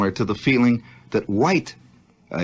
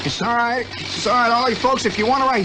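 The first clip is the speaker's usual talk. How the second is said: pilot announcement; 11 semitones higher than usual. Retold or imitated.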